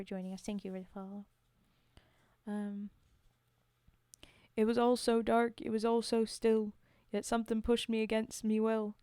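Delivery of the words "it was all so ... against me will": put-on Cockney storytelling voice; homely Cockney verse monologue; Cockney accent. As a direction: recite it like an amateur Cockney. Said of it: "my terrible accents".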